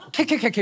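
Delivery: cackled "ke-ke-ke" laugh; imitated cackle. Shown as a demonstration. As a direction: mimic a written-out giggle. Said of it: "크크크를 케이이로 쓴대". (케케케 웃음소리 흉내)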